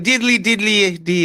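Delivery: stereotyped Irish sing-song tag; lightly put-on Irish lilt; mock Irish. Shown as a demonstration. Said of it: "I just think you gotta go".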